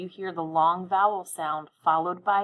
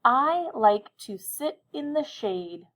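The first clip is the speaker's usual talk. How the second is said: higher and even slower, every word clear; slow dictation again; 5 semitones higher, 3 dB louder, slower than usual. Shown as a demonstration. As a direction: repeat slowly for the listeners. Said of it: "I'll say it again, listen carefully".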